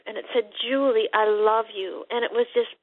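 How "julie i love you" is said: the retold call a little louder and firmer. Woman retelling the voice growing louder, mildly stronger. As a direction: let the voice grow, but keep it restrained. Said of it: "the voice got louder and louder".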